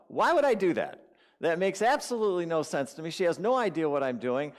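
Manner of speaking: high, loud, scoffing objection; acting out his own stubborn disbelief; indignant self-talk. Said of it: "thinking to myself".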